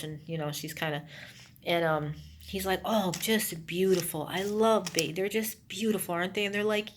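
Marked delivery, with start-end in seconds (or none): 2.8-6.5 hushed, unsettling praise; creepy Gary. Retold or imitated. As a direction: croon it like a possessed man. Gary creeping close to baby.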